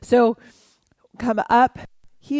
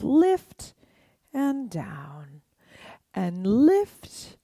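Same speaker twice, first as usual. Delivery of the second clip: whispered cue; much slower than usual. Shown as a demonstration. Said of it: "whispered cue during exercise".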